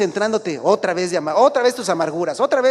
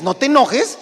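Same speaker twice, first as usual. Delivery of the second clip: higher, louder "No te enojes"; mock scold; 6 semitones higher, 7 dB louder than usual. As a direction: bark it at the kid. Quoting parent telling child.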